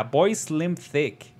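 slow, drawn-out meme line; slow meme drawl. Retold or imitated. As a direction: stretch out boy Slim Thick slowly. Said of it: "What was the Game Grumps thing?".

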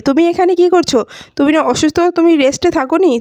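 mildly taken aback at finding her here; surprised. Acted. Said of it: "সাক্ষ্য অবাক হয়ে যায় আর বলে".

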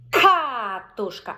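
Картина said very slowly, loud hard К at the start; повільно, з наголосом на К; slow, stressed first syllable. Shown as a demonstration. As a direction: stretch Картина slowly for the child. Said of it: "Акцентуємо увагу тільки на перший склад".

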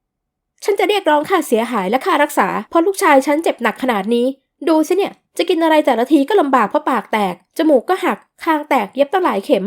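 angry mother demanding damages from the guardians, curt and loud; curt loud complaint. Acted. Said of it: "พูดเสียงห้วนดังลั่นห้อง".

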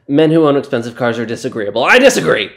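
fast, building to a loud indignant shout; indignant outburst. Acted. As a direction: snap back, offended. Defensive about his Tesla.

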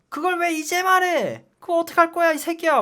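a platoon leader chewing out a recruit, imitated yelling; imitating platoon leader yelling. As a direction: bellow it like an enraged officer. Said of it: "막 이러-, 이러는 거야. 그 소대장님이".

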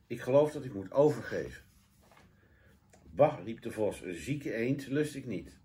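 lively, deliberate storybook telling; children's story narration. A narrator's reading. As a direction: read expressively to children. (voorleestoon voor kinderen)

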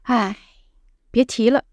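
weary sigh then 别提了. Shown as a demonstration. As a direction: breathe out a tired sigh. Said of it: "it's like sigh".

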